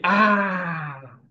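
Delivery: long, falling "aah"; drawn-out demonstration "ah"; open-mouthed ah. Shown as a demonstration. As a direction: open wide and let out "ah". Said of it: "Abra a boca aí".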